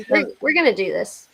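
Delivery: throat raw after coughing; hoarse from coughing. Real, not acted. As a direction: talk through a scratchy throat. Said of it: "coughing my head out".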